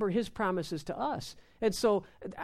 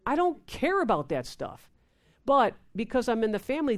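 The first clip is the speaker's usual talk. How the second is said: normal talking voice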